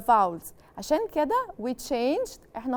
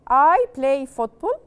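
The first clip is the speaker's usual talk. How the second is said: loud slow model; 8 dB louder, slower than usual. Shown as a demonstration. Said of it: "teacher modelling statement".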